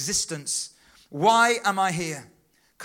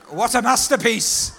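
exclaimed; 3 semitones higher, 7 dB louder than usual. Real, not acted. Preacher exclaims to congregation.

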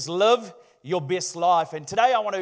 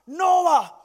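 booming Lord voice; 6 semitones higher, slower than usual. Acted. God confronts Noah in joke.

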